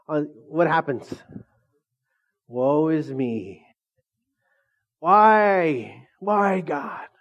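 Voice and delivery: hammed-up woe, a mock lament; mock pity party. Pastor mocking the disciples' self-pity, hammed-up whining. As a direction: whine it like a sulking disciple. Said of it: "dramatic like that".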